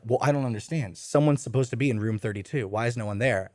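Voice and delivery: soft, low puzzled hotel clerk; lightly voiced confused staff member; puzzled desk clerk. Day shift clerk wondering about the empty room, puzzled murmur.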